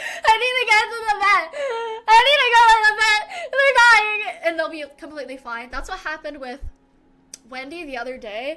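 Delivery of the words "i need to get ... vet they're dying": very high, very loud crying through words. Retelling panicking over a sick cat, imitating own past crying. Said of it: "I start crying".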